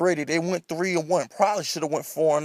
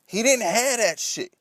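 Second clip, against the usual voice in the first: escalating comedy rant; 4 semitones higher than usual. Real, not acted. Heated rant about coaches.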